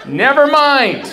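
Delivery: very high, slow, squeezed-out "never mind"; embarrassed hang-up in a high, slow voice; high squeaky retreat. Retold or imitated. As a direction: back off in a tiny high voice. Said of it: "And I was like".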